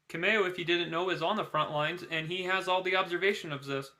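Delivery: talking while crunching ice; words round an ice cube. Real, not acted. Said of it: "I have an ice cube I'm just crunching on".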